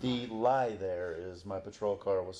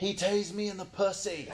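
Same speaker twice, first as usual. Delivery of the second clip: piercing, shrill, high-pitched scream; 11 semitones higher than usual. Retelling what a woman screamed on arrival at the hospital, retelling a scream. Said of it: "She immediately screams".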